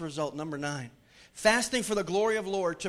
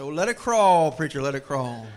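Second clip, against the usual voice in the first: deacon's mock protest; 4 semitones lower, 8 dB louder than usual. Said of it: "old deacon stood up in the back and said".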